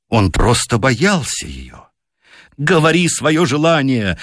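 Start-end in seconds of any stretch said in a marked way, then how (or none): 2.6-4.2 high, commanding shriek at her husband; loud piercing cry. A narrator's reading. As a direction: she orders him to wish. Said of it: "громко и пронзительно".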